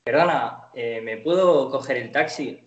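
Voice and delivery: "Perdona, eh, ¿me puedo coger el taxi?" in a lightly imitated Argentine accent. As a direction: ask for the taxi like an Argentine newcomer, lightly put on. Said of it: "paro de imitar el argentino". ("Perdona, ¿me puedo coger el taxi?" con leve acento argentino)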